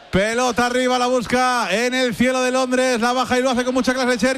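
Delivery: driving, full-voiced match commentary; live football play-by-play. Real, not acted. Commentator following the ball into London sky, live play-by-play.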